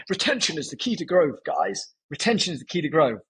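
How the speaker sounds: mock posh British accent, as an old boss lecturing. Ex CEO telling the team on calls, in a light posh British accent. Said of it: "the really posh British accent".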